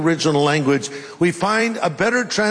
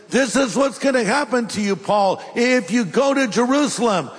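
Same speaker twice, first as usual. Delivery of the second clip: mock-dramatic prophet, pitched up; higher-voiced, slightly overplayed warning; 4 semitones higher than usual. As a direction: deliver an urgent, theatrical plea. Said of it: "being a little dramatic".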